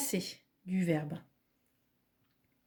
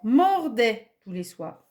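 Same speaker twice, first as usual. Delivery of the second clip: slow example; 3 dB louder, slower than usual. Shown as a demonstration. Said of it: "on peut dire".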